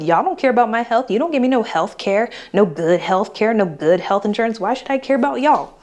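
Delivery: sassy, indignant venting, played up; disrespectful tone. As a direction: tell the employer off with attitude. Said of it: "I probably wouldn't say it in that exact tone".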